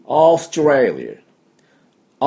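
オーストラリア with a long stretched オー; long O in Australia. Shown as a demonstration. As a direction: drag out the opening オー, slow and even. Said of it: "オーって伸ばして".

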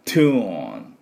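「トゥーン」の頭を強い息で; 唾を飛ばすように始めて「トゥーン」と伸ばす; 唾を飛ばすTの音. Shown as a demonstration. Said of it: "唾を飛ばす音ですね". (英語のT音で長い「トゥーン」)

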